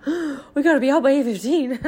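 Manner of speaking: rushed alarm breaking into laughter; laughing mock panic. Mom retelling the Bible school morning rush, laughing. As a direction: panic about the deadline, then laugh. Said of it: "which was like".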